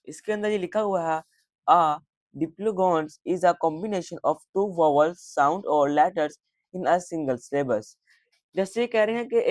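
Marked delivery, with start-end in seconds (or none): 1.7-7.9 slow, careful read-aloud of a definition; teacher reading from the textbook; slow classroom reading. Acted. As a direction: read it out slowly so students can follow.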